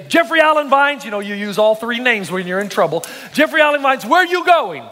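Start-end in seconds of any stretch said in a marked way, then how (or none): 0.1-1.0 calling out the full name, scolding; a mother calling her son, exasperated; yelling child's full name. Retold or imitated. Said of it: "my mother would scream at me". 3.3-4.8 raised, scolding mother's call; higher, insistent call after a son; yelling child's full name. Retold or imitated. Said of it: "my mother would scream at me".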